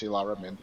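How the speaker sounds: "Ilara" said with a clear L sound in the middle, no Y glide; double L as L. Shown as a demonstration. Correcting the player's name for his co-host, clear L in "Ilara". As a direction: give "Ilara" a crisp L where the double L is written. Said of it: "pronounce the double L's as an L sound".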